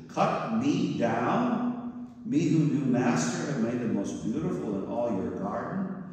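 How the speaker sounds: shocked bamboo begging its master; horrified. Acted. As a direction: plead in disbelief, stretching the words. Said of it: "A trembling great horror shook Bamboo".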